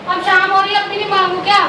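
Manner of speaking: high-pitched indignant demand. Acted. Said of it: "क्यों चिल्ला रही हो".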